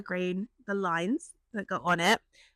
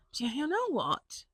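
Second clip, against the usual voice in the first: excited idea; 7 semitones higher than usual. Retold or imitated. Excited inner monologue about idea.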